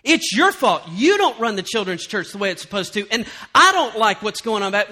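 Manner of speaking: loud accusing outburst; acted-out angry church complaint; mock lashing out. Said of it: "So they begin to lash out".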